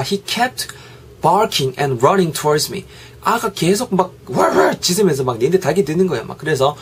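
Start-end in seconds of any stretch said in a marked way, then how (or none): 4.3-4.8 dog bark. Retold or imitated. Imitating a dog barking.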